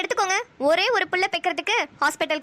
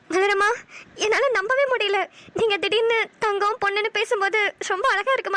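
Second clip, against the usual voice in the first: tearful; 3 semitones higher than usual. Acted. Moved to tears.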